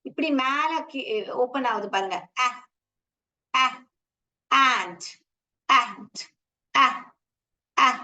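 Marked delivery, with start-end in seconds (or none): 2.5-7.9 அ said short and open, mouth opening wide; short vowel demo. Shown as a demonstration. Teacher showing the vowel sound அ to the class. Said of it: "என் mouth note பண்ணீங்கன்னா".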